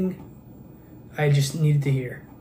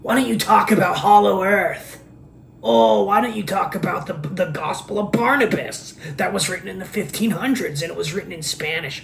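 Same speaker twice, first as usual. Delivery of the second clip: mocking commenters; 3 semitones higher than usual. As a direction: needle him like a pestering online commenter. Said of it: "They say these things".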